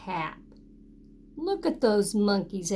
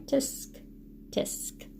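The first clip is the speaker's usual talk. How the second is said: soft tutting tisk; monkeys tutting; 2 semitones higher, 8 dB quieter, much slower than usual. Shown as a demonstration. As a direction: cluck it back quietly like teasing monkeys. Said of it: "do that".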